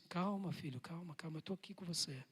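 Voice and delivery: soft, calming voice of the Lord; gentle reassurance. Acted. The Lord comforting his troubled son, soft and tender. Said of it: "e o Senhor diz".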